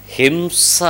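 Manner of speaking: హింస said softly, with a slight rise at the end; quiet mention. Shown as a demonstration. Preacher naming the lesser degree of violence, హింస said softly. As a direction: say హింస quietly, left hanging. Names violence, then greater violence.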